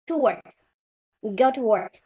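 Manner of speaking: slow, even English words; slow demo. Shown as a demonstration. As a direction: say each word slowly and clearly. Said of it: "中文版本". (慢慢地示范英文)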